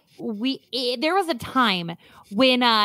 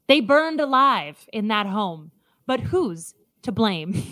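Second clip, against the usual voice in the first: true-crime narrator. Acted. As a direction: build suspense like a podcast host.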